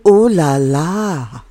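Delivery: slow, drawn-out ooh la la; playful swoon. Acted. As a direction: savour it slowly, playfully. Echoing the song title.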